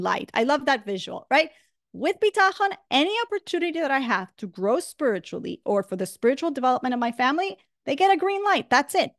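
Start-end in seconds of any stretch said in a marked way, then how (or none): none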